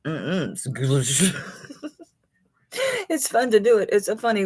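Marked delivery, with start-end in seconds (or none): 0.5-1.3 "goulash" said slowly, as she used to say the word; drawn out, jokey "goulash"; old mispronunciation. Shown as a demonstration. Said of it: "I used to call it goulash".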